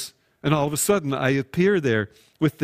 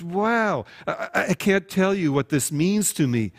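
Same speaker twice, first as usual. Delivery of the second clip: gushing thanks; 4 semitones higher than usual. Acted. Congregant gushing over pastor's gift.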